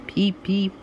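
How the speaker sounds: train whistle peep. Acted. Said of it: "goes Thomas".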